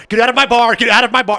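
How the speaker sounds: high, loud yell; megaphone yell. Retold or imitated. Bartender yells at Santa through a megaphone. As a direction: throw a drunk Santa out of the bar. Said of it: "yells him out of the bar".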